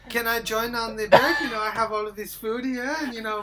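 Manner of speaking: lightly put-on Swedish accent; amateur mock-Swedish accent; attempted Swedish accent. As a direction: make small talk in fake Swedish-accented English. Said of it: "speaking English in a Swedish".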